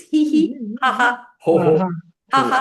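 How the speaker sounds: hee ha ho laughs, high; vary the laugh; laughter yoga sounds; mixed laughter sounds. Shown as a demonstration. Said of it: "if it's like this".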